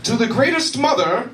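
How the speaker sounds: high, slow, gushing card verse; hammed-up greeting card sentiment; mock greeting card. Shown as a demonstration. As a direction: gush it like a sappy card. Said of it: "let me demonstrate".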